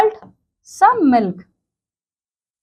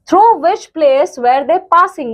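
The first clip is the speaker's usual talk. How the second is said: Through which place were they passing read slowly word by word; slow read-aloud for young pupils; slow textbook reading; 3 semitones higher, much slower than usual. Shown as a demonstration. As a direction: dictate the question slowly to students. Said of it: "going to give the answer".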